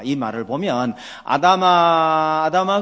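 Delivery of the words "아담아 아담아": slow, drawn-out call, louder and higher. Retold or imitated. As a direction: call Adam's name across the garden. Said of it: "아담을 부르시며".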